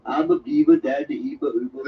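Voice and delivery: low, mumbled cartoon babble; Mushmouth. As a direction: mumble the words into mush. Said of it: "Mushmouth, yeah".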